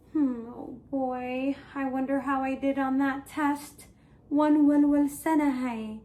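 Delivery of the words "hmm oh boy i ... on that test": mildly anxious musing, subdued; worried. Shown as a demonstration. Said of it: "I'm worried".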